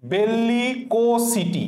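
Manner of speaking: slow teacher's model of "বেল্লিকো সিটি", each part held; careful syllable-by-syllable pronunciation. Shown as a demonstration. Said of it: "কি হবে?".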